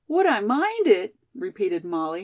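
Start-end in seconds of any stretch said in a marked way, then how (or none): 0.1-1.1 high, mildly tearful question; upset, raised-pitch reply; tearful protest. A narrator's reading. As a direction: echo the question in hurt disbelief. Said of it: "her eyes filling with tears".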